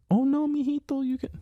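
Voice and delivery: put-on high, sing-song Latina mother accent; mock Latina mom accent. Dad imitating his mom in a Latina accent, high and sing-song. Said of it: "I don't know why I'm giving her this accent".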